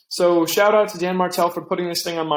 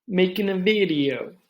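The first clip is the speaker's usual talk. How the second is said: put-on Italian accent; 3 semitones higher than usual. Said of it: "I said that Italian".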